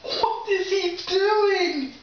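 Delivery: slow, high puzzled question; drawn-out amazed question; surprised. Real, not acted. Surprised by puppy's dance.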